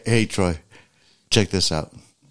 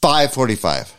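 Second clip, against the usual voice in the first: insistent; 5 semitones higher, 5 dB louder than usual. Real, not acted. Keeps insisting in argument.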